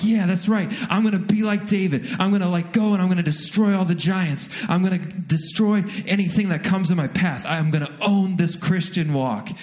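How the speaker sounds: imitating his own hyped-up self; pumped up. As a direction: fire yourself up like a fighter. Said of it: "I get super excited".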